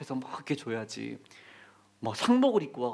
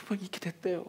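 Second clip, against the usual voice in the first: whisper; 6 dB quieter than usual. Retold or imitated. Retelling the burned homeland.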